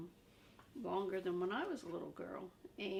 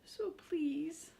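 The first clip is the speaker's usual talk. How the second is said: high, louder urgent puppet voice; Grover pleading; 4 semitones higher, 7 dB louder than usual. Acted. Grover begs the reader to stop turning, high and urgent. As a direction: beg them not to turn the page.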